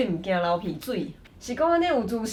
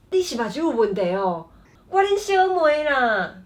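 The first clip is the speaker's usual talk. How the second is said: annoyed retort; 3 semitones higher than usual. Acted. Example skit, annoyed sister retorts.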